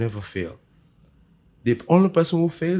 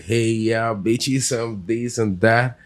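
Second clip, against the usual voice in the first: wannabe rapper; much slower than usual. Retold or imitated. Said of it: "there's one thing to say".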